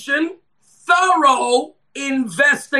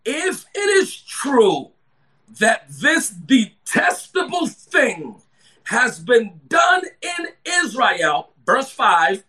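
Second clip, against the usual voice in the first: slow, stretched preacher's cadence; emphatic scripture reading; slower than usual. Real, not acted. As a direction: read the verse slowly with weighty pauses.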